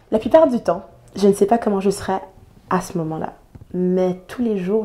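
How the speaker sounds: spoken-word poem recital with emphatic key phrases; poem reading. Acted. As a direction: read it as a committed, rhythmic protest poem. Reads a poem aloud. (lecture de poème engagée)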